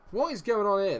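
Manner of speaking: high, loud indignant shout; real outburst of protest; outraged. Real, not acted. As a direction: yell it at the referee in disbelief. Outrage at a bad tackle.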